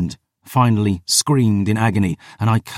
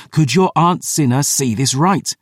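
higher, insistent question; urgent shout; 5 semitones higher than usual. Acted. Questioning barely conscious Phoebe, urgent and raised. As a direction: demand an answer with raised urgency. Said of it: "I shouted".

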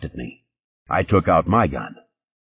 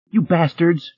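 angry; 10 semitones higher, slower than usual. Acted. Redhead cursing the cops.

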